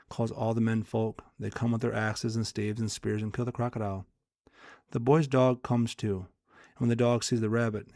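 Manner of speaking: measured, lightly animated story reading; storyteller with a touch of drama; parable read aloud. Acted. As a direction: read a fable aloud with lightly voiced dialogue.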